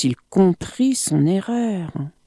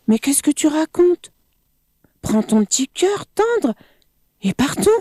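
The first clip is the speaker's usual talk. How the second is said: crocodile voice; 9 semitones higher, faster than usual. Acted. Crocodile confused.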